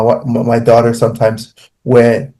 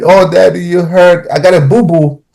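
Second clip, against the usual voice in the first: put-on lightly higher, sweet child voice; little daughter voice; 5 semitones higher than usual. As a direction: coo like a small child comforting daddy. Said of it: "I'll act like I'm crying".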